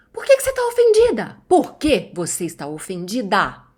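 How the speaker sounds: mock angry boyfriend nearly yelling; almost shouting. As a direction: retell his angry near-yell, then settle a little. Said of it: "começar a falar bem alto, quase gritando".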